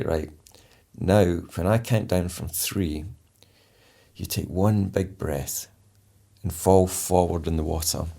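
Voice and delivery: slow, smooth, rounded words; slow calm instructor voice. Retold or imitated. Instructor talking trainees into calm underwater, slow and smooth. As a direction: lull them into sleep underwater. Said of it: "my voice has changed again".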